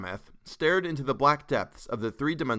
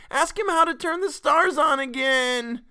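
put-on high, loud, drawn-out child's demand; slow, piercing kid howl; wailing; 7 dB louder than usual. A narrator's reading. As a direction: wail it like a tearful small girl. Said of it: "wailed Geraldette One".

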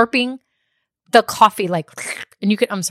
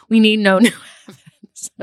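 laughing; 4 dB louder than usual. Real, not acted. Laughing through repeated line.

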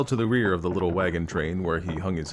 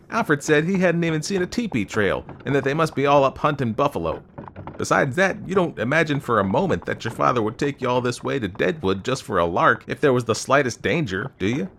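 put-on raised, insistent young man's voice; persuasive young man; 6 semitones higher, 5 dB louder than usual. A narrator's reading. Young man argues there is no danger, persuasive. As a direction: argue insistently, higher and louder.

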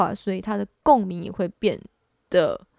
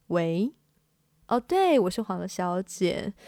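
steady, authoritative phone manner; mature professional voice. Shown as a demonstration. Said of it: "用一个比较御姐的声音来接电话". (御姐般稳重的接电话声音)

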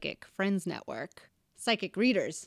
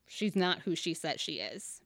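whispered gossip; 3 semitones lower, 5 dB quieter than usual. Retold or imitated. Gossip quote, dropped to hush.

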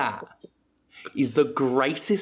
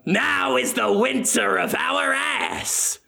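hammy Shakespeare recital; 9 semitones higher, slower than usual. Pretend. The speaker reciting a famous line, slow hammy declaim. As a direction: announce it like a stage ham. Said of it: "the speaker reciting Shakespeare".

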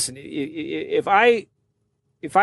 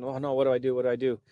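panicked inner voice; 3 semitones lower, 8 dB quieter, faster than usual. Retold or imitated. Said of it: "So then I'm freaking out".

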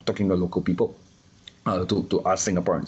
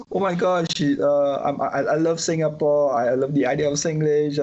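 a lightly voiced London lady, a bit higher; London accent; 6 semitones higher than usual. Quoting a London lady who loves Singlish, light mock London accent. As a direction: gush about Singapore in a half-hearted London accent. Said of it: "she's London".

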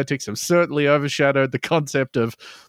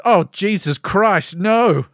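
horrified; 5 semitones higher, 4 dB louder, slower than usual. Acted. Horrified reaction to the Grunter.

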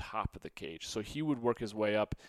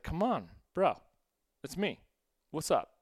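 higher, pleading buddy voice; coaxing the snake; 6 semitones higher, 3 dB louder than usual. Retold or imitated. Teen sweet-talking his snake down from the ceiling, higher coaxing plea. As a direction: sweet-talk the snake like a friend. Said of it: "I was like".

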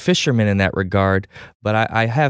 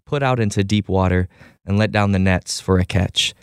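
scripture reading; 2 semitones lower than usual. Acted. Host reading scripture to the listeners, measured and reverent. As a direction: read the passage aloud with steady reverence.

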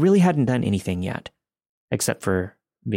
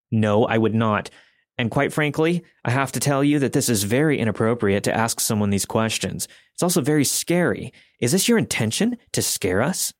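angry tone. Retold or imitated. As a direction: scold him like a protective mother. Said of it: "respond in an angry tone".

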